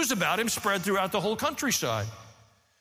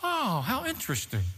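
mock idle interest, pitched higher; disinterested onlooker; 4 semitones higher than usual. Preacher mimics a distracted party reading Luke, mock detached. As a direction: play the detached observer remarking mildly. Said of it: "some distracted, disinterested party going".

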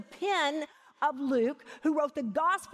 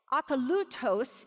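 Akalutos with the LU stressed; stress on third syllable. Shown as a demonstration. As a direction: lean on LU in Akalutos. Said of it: "have the accent on the third syllable".

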